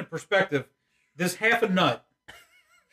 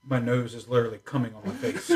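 laughing shout; 8 semitones lower, 4 dB quieter than usual. Real, not acted. Burning from pepper, laughing.

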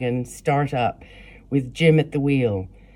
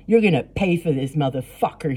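yelling; 2 semitones higher than usual. Acted. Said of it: "she yelled".

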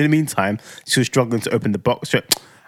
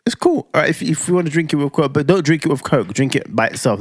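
mock meek self; 3 semitones higher than usual. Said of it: "I was like".

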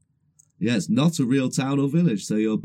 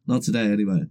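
stuffy, bunged-up nose; blocked nose; 2 semitones lower than usual. Real, not acted. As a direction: talk through a blocked nose. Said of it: "I have a snotty nose".

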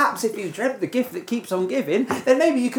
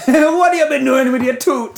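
laughing Jamaican dentist voice, higher and louder; higher, louder mock Jamaican dentist; Rasta dentist; 8 semitones higher, 5 dB louder than usual. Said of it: "you turned into a Rasta dentist".

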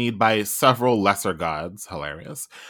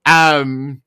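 news anchor voice; 2 semitones higher than usual. Pretend. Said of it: "a different type of C N N, uh, anchor voice".

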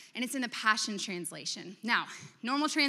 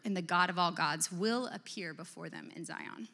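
scripture reading; 4 dB louder than usual. Acted. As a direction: read the psalm with gravity. Reads psalm aloud.

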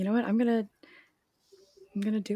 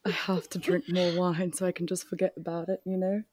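put-on British accent. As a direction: play at sounding British. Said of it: "rest of the podcast in British".

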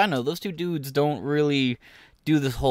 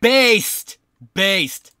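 excited cheer; 5 semitones higher, 6 dB louder than usual. Real, not acted. Streamer cheering protester line.

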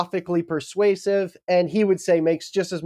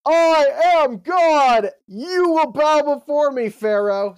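high, slow, screaming divine wrath; booming God voice; 11 semitones higher, 4 dB louder, slower than usual. Acted. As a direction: thunder it down like an angry deity. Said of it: "someone screamed at you".

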